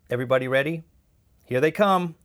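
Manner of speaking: loud, high, building shout; rally everyone as the danger arrives; urgent rallying call. A narrator's reading. Leader rallies group as police arrive.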